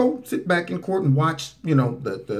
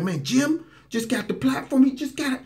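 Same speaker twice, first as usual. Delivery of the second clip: high, pouty mock voice; jealous mock whine; 10 semitones higher than usual. Commentator mimics April envying Jim, high mock whine. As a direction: imitate her envy in a high whine. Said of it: "She's like".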